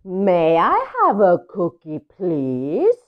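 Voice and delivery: polite duckling. Acted. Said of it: "it's a smaller voice".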